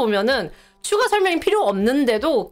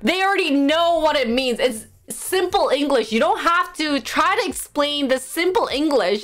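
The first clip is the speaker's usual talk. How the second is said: higher-pitched, mildly mad telling-off; exasperated self-scolding; 4 semitones higher than usual. Retold or imitated. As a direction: scold yourself by name, fed up. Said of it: "I just get so mad".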